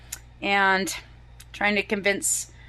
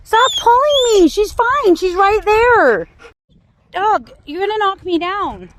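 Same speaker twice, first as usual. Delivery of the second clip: much higher and louder stressed yell; 10 semitones higher, 7 dB louder, slower than usual. Real, not acted. Owner yanked by pulling dog, stressed yelling. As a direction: holler while being dragged.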